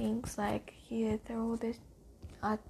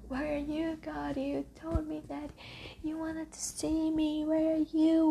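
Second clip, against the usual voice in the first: anguished plea to God; 3 semitones higher than usual. Retold or imitated. Man cries out to God.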